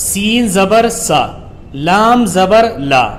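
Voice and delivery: letter by letter then the joined word; teacher sounding out a word for pupils; slow spelling recitation. Shown as a demonstration. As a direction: chant the parts evenly, then land the word. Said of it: "سب سے پہلے دیکھیے".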